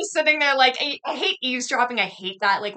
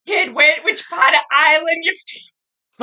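put-on loud, higher Boston kid voice; mock Boston accent; 5 semitones higher, 5 dB louder, slower than usual. Boston local hailing an Irishman, loud mock Boston accent.

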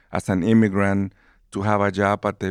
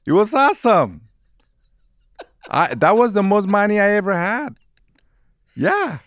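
excited; 11 semitones higher, 4 dB louder than usual. Real, not acted. Excited about first wage.

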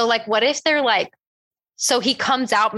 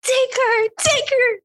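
much higher, desperate cry; frantic shout; slower than usual. Pretend. Player flinging the dead body at the killer, yelling. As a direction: yell it as you throw the body. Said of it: "I fling it at him".

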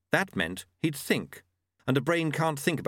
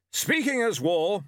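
put-on higher, booming old warrior; War's voice; 9 semitones higher, 4 dB louder than usual. A narrator's reading. War talking to Death about the auditors, hearty. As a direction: play him as a hearty old soldier.

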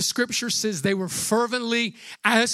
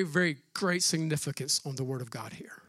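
emphatic whisper; 6 semitones lower, 5 dB quieter than usual. Real, not acted. Preacher stressing the Word.

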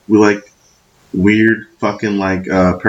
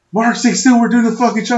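mock calm friends; 13 semitones higher than usual. Friends told him to stay still.

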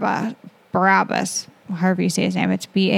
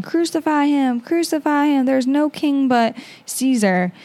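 mild mock yell; 5 semitones higher than usual. Retelling the crowd's demand to Pilate, mild mock yell. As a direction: imitate a chant-like outcry at talking volume.

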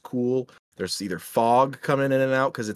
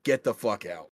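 spooky ghost voice; 4 dB quieter than usual. Retold or imitated. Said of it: "that's what I would scare people with".

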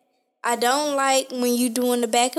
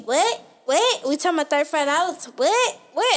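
quick, rising retorts; retold incredulous what-what; mock indignant questioning; 3 semitones higher than usual. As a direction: imitate his rapid-fire disbelief. Mimics his indignant repeated questioning.

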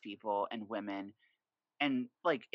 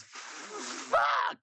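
retold curse; 4 dB louder than usual. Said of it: "all my best friend said was".

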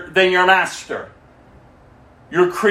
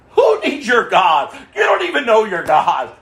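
mock yell. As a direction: yell back at the believers with scorn. Mocking believers, shouting back.

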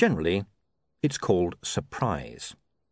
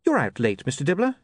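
politely; 6 semitones higher than usual. Acted. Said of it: "he said politely".

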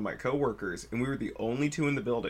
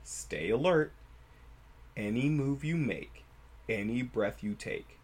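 storytelling voice. Shown as a demonstration. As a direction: tell it like a campfire horror tale. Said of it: "Storytelling voice".

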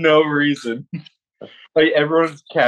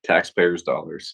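slow, careful; 8 semitones lower, 4 dB quieter, slower than usual. Shown as a demonstration. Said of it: "is hard to say".

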